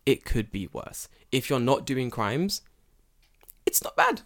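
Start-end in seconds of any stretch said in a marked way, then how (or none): 3.6-4.2 high airy whisper of "it's not bad"; whispered aside. Real, not acted. Insisting Japan's police aren't bad, in a whisper.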